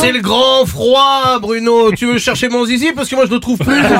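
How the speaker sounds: cold shout. Acted. Comic sick shouting chronicle.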